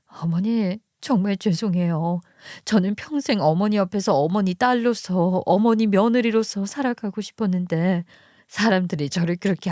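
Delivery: mildly tearful acted farewell; tearful pitiful heroine. Wife bids mother-in-law farewell, feigning gentle tears. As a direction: play the pitiful heroine, understated. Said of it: "가련한 여주인공의 빙의에 눈물을 또르르".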